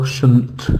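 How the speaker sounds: "shouldn't" said as an unstressed "shunt"; second syllable of patient alone, with a schwa; weak schwa syllable. Shown as a demonstration. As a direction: reduce "shouldn't" to a weak "shnt". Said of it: "and the second syllable".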